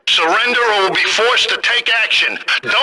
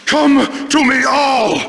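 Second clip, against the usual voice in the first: ranting cultist; 4 semitones higher than usual. Acted. Cultist invoking demons.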